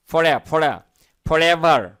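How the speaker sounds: forever said slowly, sound by sound, then whole; pronunciation demo. Shown as a demonstration. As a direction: build up forever from its first syllable. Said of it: "খেয়াল করুন এখানে উচ্চারণটা একটু অ্যা উচ্চারণ হবে".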